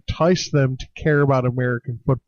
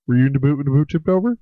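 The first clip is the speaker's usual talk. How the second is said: put-on Canadian joke accent; faster than usual. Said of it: "that's a good Canadian joke, eh?".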